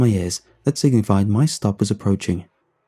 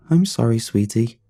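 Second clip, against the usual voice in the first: fake customer service voice. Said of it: "My fake customer service voice".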